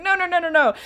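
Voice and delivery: frantic pleading to make him stop reading; flustered protest. Retold or imitated. Wife begging husband to stop reading her chapter, flustered. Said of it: "I was like".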